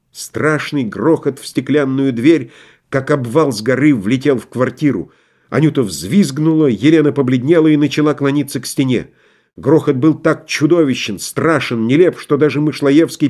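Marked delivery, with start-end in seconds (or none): none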